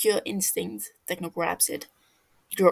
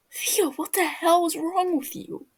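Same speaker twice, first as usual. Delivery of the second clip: gasped out; 9 semitones higher than usual. Acted. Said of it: "Fofo gasps out".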